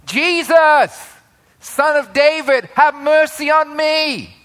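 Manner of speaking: high, loud cry for mercy; yelling. Acted. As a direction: call out desperately over a crowd. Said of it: "So he starts yelling".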